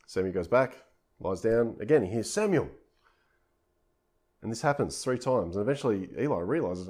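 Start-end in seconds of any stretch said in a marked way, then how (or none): 2.3-2.7 voice of God calling. Retold or imitated. God calls the boy again.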